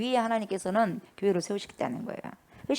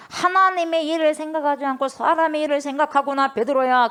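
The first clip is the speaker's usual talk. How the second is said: raised, louder scolding of a disciple; Jesus rebuking Peter with a sharp, raised voice; stern rebuke; 5 semitones higher, 4 dB louder than usual. Acted. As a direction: scold him sharply from the pulpit. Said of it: "아주 심하게 꾸짖습니다".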